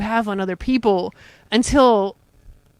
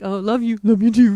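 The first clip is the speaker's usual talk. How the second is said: offhand love you. Retold or imitated. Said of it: "you do the love ya".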